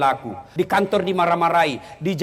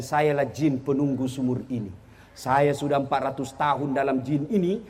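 lower, softer lightly voiced jinn; 6 semitones lower, 4 dB quieter than usual. Jinn answering the husband from the well, lower spirit voice. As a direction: speak as an old well spirit.

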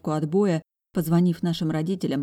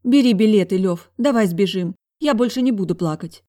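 angry resolve; 4 semitones higher, 8 dB louder than usual. A narrator's reading. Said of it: "Вытерла она зло слёзы".

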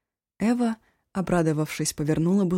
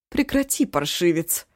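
angry bark; 4 dB louder than usual. Acted. Cook barks at Eshu to stop. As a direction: snap at the cheeky boy. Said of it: "рявкнула та".

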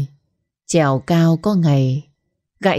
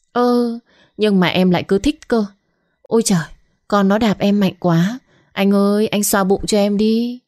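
higher, wheedling coo to her man; coy sweet-talk; 4 semitones higher than usual. Acted. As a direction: act spoiled and needy, sugary whine to the husband. Mistress coos to husband on phone.

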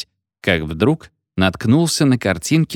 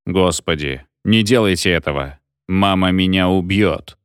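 distorted voice; 2 semitones lower than usual. Acted. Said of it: "Искажённый голос".

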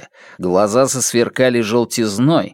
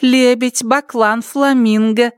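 a higher character voice reeling off dishes; menu recital; 9 semitones higher than usual. Acted. Waiter listing dishes to the mayor, in a raised character voice. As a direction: list the birds like a waiter showing off.

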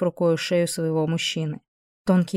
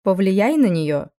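louder, slow irritated demand; 2 semitones higher, 5 dB louder, slower than usual. Acted. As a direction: demand it, fed up. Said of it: "раздражённо".

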